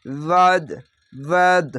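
ওয়াদ cut off sharply at the end; stop on the dal. Shown as a demonstration. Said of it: "এভাবে থেমে যাবেন".

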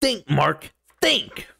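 meme-style exasperated yell, pitch leaping on the last word; mock Omni-Man yell. Imitating the meme dad berating his own son, mock yell. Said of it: "where he's all like".

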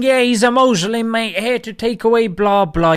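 a hint of a sneering bigot; mocking bigot. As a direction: send up a xenophobic bloke. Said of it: "People started saying".

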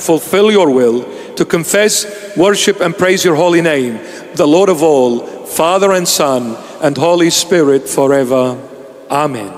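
solemn prayer voice; measured liturgical prayer. Acted. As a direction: pray it reverently over the people. Closing prayer.

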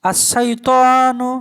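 আশাইতানু said very slowly, lam silent and sin doubled; tashdid on sin. Shown as a demonstration. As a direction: stretch আশাইতানু out, no l sound, press on the doubled sh. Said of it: "সিনের উপর তাসদিদ চলে আসে". (তাসদিদসহ ধীরে আশাইতানু, লাম উচ্চারণ ছাড়া)

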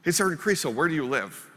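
a hint of a dim Marine stuck on one question; same question again. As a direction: ask it like he'll never stop. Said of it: "the third time through this game".

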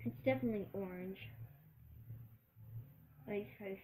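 talking with mouthful; chewing candy. Real, not acted. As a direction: hand over mouth while chewing. Seen 0: Hand at lips, chewing candy throughout; eating before and after too.

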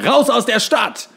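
high, slow, loud mock shout; shouted warning. Ad man shouting at the whole town, hammed-up loud. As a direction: bellow it like a street advertiser. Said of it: "schreit immer".

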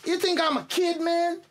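insulted cousin yelling back; indignant shout. Acted. Cousin protests being called a kid.

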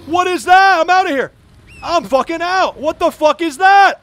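high, loud shouts of alarm; panicked yelling. Real, not acted. Player fleeing an unknown creature, panicked yelling. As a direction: yell in real panic and bail out.

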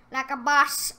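"Like a boss" called out loud and proud, rising at the end; a smug cheer after the whisper; loud boast. Real, not acted. Repeats it out loud, gloating.

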